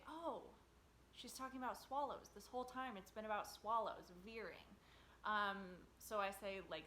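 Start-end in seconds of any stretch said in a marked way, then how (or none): 0.1-4.8 mock sudden realisation. Composer voicing the audience finally getting it, mildly surprised. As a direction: act out a listener's dawning realisation. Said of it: "I wanted the audience to say".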